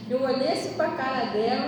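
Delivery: ordinary delivery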